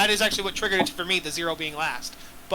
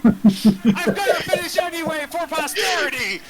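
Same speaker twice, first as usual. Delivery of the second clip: laughing; 8 semitones higher, 4 dB louder than usual. Real, not acted. Insists on finishing riddle, laughing.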